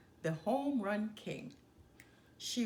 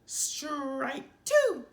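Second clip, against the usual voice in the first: loud, higher umpire shout; umpire yelling; 6 semitones higher, 8 dB louder than usual. A narrator's reading. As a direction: bellow the call over the crowd. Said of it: "yelled the ump".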